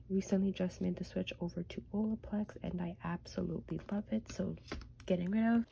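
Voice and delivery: blocked nose, sniffling. Real, not acted. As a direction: talk through a stuffy nose. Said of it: "Please excuse the sniffling".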